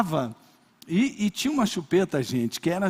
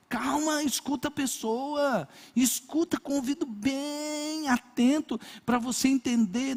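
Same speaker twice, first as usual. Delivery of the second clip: pastor's advice; 6 semitones higher than usual. Retold or imitated. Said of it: "ele disse".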